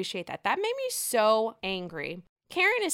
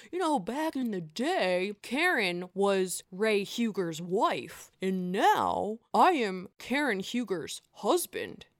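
a lightly lowered man's voice, slow; guy voice; slower than usual. Retold or imitated. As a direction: play Ray lightly, slow and smug. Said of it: "here's my guy voice".

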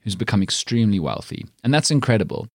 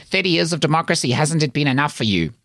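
a lightly put-on white South African accent, raised up; mildly mock the complaining white South African accent; 5 semitones higher than usual. Mocking people who complain about BEE, in a lightly put-on white South African accent. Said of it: "in exactly that accent".

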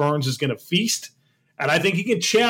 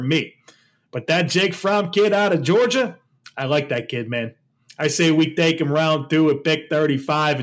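Gruden. Acted. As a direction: lightly put on a football coach's voice. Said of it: "you gotta do it in the voice".

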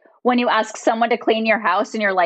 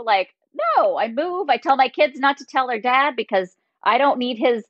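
ordinary delivery

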